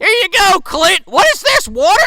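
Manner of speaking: high, loud, hammed-up yelling; high-pitched comic holler; mock shouting. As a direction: act out a shouted mock scene. Acting out dumping ticks on Clint.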